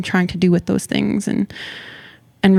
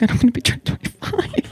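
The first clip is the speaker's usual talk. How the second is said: higher, hammed-up dread of a birthday; mock panic; 5 semitones higher, 4 dB quieter, faster than usual. Joking about her age with the host, mock panic. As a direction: pretend to panic, breaking into laughter. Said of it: "I was just being funny".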